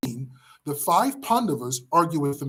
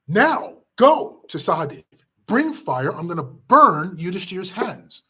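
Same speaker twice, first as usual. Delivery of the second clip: furious shout; 2 semitones higher, 5 dB louder than usual. Acted. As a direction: roar the order at a younger brother. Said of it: "Bhima shouts at Sahadev".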